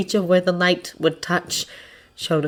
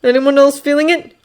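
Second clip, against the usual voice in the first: high, louder uneasy question; tense, tight voice; 8 semitones higher, 5 dB louder than usual. A narrator's reading. Kirishima asks if others feel it, tightly. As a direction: check nervously with the group. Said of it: "Kirishima says tightly".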